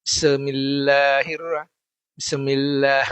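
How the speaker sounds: Bismillah with a break after the sin, like səmila; wrong pronunciation. Shown as a demonstration. Teacher showing students a common mistake, broken sin. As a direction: clip the sin in Bismillah as if bounced. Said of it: "Ada yang bacanya begini".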